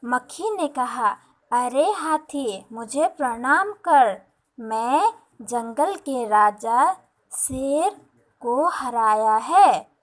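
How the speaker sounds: put-on slow, expressive storybook reading for kids; reading a story to children. Teacher reading the lion and fly story to her class, slow and expressive. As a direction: read it out slowly so the children can follow.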